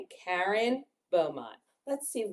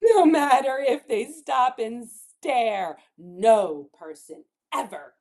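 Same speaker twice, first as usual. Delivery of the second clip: emphatic rhyming storybook read; reading to children; 2 semitones higher, 4 dB louder than usual. Acted. Teacher reads defiant rhyme to children, emphatic. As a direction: build to one long, loud stressed word.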